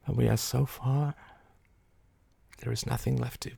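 high, very soft, near-whispered lament; crumpling despair. A narrator's reading. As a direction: let the voice give way to despair. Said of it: "Her face crumpled".

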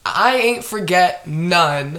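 slow, sassy comeback. Retold or imitated. Answering the clerk's text, slow and sassy. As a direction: drag it out with bad-bitch attitude. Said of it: "me being the bad bitch that I am".

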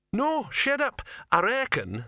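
troll silencing the crowd; troll shouting. Acted.

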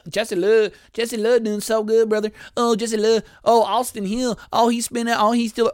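high, loud, hammed-up race commentator; mock announcer call. Ranting about the race, he mocks the excited announcers.

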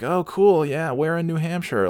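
high, bright mock-polite reply; fake interest. To dad's new friend, mock chipper interest. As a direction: play at being interested. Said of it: "And I'm like".

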